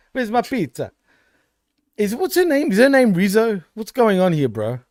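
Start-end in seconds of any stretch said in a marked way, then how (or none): 0.1-3.6 high mock Italian-American accent; Italian-American wise guy. Co-host imitating wise guys from Italy, mock Italian-American accent. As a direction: play a stereotype Italian wise guy asking. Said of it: "are total wise guys".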